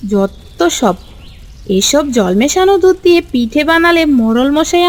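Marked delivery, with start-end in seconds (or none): 0.1-0.9 scornful mutter. Acted. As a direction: dismiss it under your breath. Scorning watered milk.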